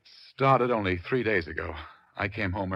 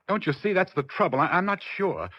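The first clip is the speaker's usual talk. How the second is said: pitched higher, a pleading cry of doubt; anguished plea; 8 semitones higher than usual. Acted. Husband pleading with the detective about his wife, anguished. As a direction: crack upward, begging to be understood.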